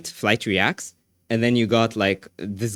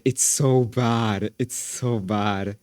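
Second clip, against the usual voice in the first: slow drawn-out disgust; much slower than usual. Shown as a demonstration. Streamer to chat about the video, slow drawn-out dismay. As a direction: stretch every word of "It's so bad" out slowly.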